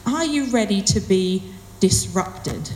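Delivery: slow question, "disrupted" set apart; pause, then weight the word "disrupted"; measured delivery landing on "disrupted"; stress on disrupted. Shown as a demonstration. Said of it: "the first stress, I guess you could put on it is".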